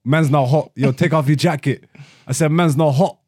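lightly put-on London rapper accent; a rapper. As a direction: quote the catchphrase in mock London. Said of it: "a rapper".

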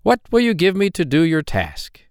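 a droll little man, sly and teasing; hobgoblin voice. Acted.

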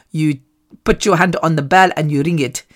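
retold speech in a mild Nigerian accent. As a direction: put on a light Nigerian accent. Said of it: "I don't know why I do Nigerian accent".

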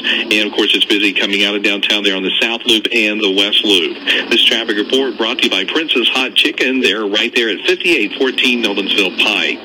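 steady, brisk-sounding traffic update; radio traffic report. Real, not acted. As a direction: deliver a live on-air traffic bulletin.

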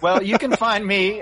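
squawky Punch puppet swazzle voice. Shown as a demonstration. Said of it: "that's the dreaded swazzle".

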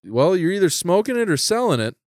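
imitating dad's confident, angry retort. Dad accusing his kid in the car, confident angry. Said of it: "that confident angry is terrifying".

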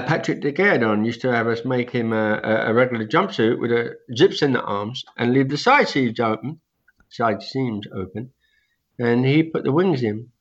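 gummy speech with no teeth; toothless. Real, not acted. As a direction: talk like your teeth are out. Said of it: "I just had all my teeth out, so I'm talking kind of funny".

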